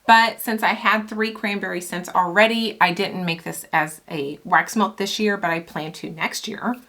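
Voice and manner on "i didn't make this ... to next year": slightly winded, breathy talk; talking while out of breath. Real, not acted. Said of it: "Sorry, I'm getting out of breath".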